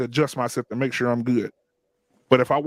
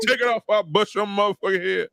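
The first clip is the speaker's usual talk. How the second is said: Bernie Mac; 4 semitones higher than usual. Retold or imitated. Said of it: "turned straight into Bernie Mac".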